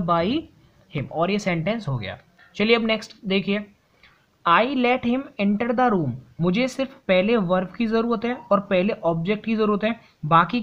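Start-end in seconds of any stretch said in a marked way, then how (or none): 4.4-6.1 reading the sentence very slowly, word by word; slow classroom dictation of an example sentence. Shown as a demonstration. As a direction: dictate it so students can write along.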